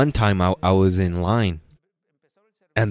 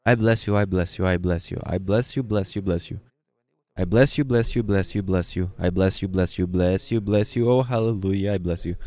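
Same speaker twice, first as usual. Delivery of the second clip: imitating a droning, repetitive prayer; mock churchgoer chanting on autopilot; mock rote praying; 2 semitones lower than usual. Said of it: "There are Christians that".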